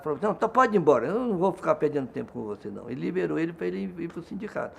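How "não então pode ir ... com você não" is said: irritated. Retold or imitated. Police chief dismissing the union president, mildly irritated. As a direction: imitate a fed-up official sending someone away. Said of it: "o delegado ficou irritado".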